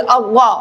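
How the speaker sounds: अव्वा heavy and rounded, towards "aw"; मोटी आवाज. Shown as a demonstration. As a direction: fill the mouth on अव्वा. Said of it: "ये पुर हरूफ है". (अव्वा को मोटी आवाज़ में)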